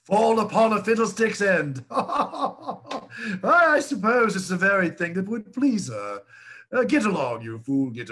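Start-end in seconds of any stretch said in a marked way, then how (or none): 0.0-6.2 laughing scornfully. Acted. Father mocking his son's romantic plan, laughing. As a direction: speak through a mocking laugh.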